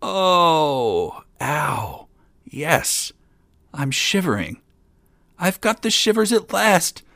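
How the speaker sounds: high, loud, shivering astonishment; crying out. A narrator's reading. Young king shivering at last under wriggling fish, crying out. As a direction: wail it high, thrilled by the cold shock. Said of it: "he cried".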